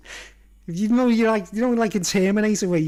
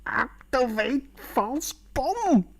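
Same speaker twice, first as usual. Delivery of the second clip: high desperate command; 7 semitones higher, much slower than usual. Shown as a demonstration. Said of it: "repeats the gag".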